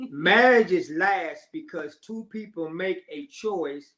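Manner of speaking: slow, deliberate read-out, punching the key phrases; emphatic quote reading. Acted. Reads out a quote.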